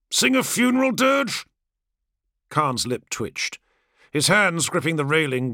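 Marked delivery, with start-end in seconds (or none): 0.1-1.4 a touch higher, cocky and defiant brother; swaggering gladiator, barely hiding scorn; lightly voiced brash warrior. Kargos mocking.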